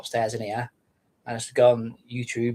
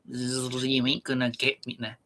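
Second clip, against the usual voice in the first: slow, taunting little fly voice; lightly voiced teasing fly; fly impression; 3 semitones higher, 4 dB quieter, slower than usual. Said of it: "That's my fly impression".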